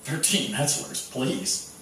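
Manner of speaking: soft sarcastic Thirteen Metzlers please; mock disbelief, quietly; scoffing thought. Teammates sneering at the coach's demand, soft sarcastic. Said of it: "we're all thinking".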